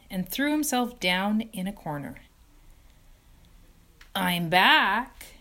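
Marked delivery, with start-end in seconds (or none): 4.1-5.3 tired, husky rat. Acted. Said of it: "he said in a husky voice".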